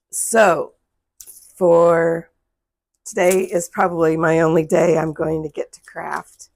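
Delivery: strained, cracking voice giving out. Real, not acted. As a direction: voice giving out mid-sentence. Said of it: "voice is giving out on me".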